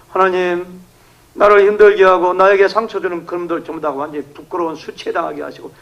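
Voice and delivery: preacher acting out a raw prayer; vengeful prayer. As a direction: demand God shame them. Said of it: "막 이렇게 기도하는 거죠".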